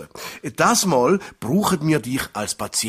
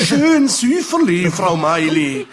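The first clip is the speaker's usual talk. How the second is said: urgent plea; 4 dB louder than usual. Acted. Doctor urges gentle breathing.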